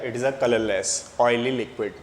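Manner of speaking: very slow, each word drawn out; slow dictation. Shown as a demonstration. Teacher repeating to class, slow dictation. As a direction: repeat it slowly for the notebooks.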